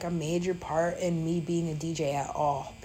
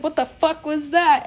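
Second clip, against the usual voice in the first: higher, louder amazed outburst; stunned friend; 9 semitones higher, 8 dB louder than usual. Retold or imitated. The guy she just met, amazed, higher and louder. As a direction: blurt it out in disbelief. New friend reacts to her drumming.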